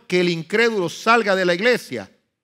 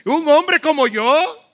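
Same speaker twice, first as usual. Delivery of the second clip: the wrong way; 11 semitones higher, 5 dB louder, slower than usual. Shown as a demonstration. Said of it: "No fue así que dijo Nehemías".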